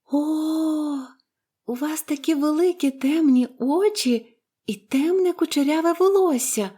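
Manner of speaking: put-on high, gushing little girl; prattling admiration. A narrator's reading. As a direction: babble with delight, voice lifted. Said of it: "лопотіла Поліанна". (захоплене дитяче лопотіння)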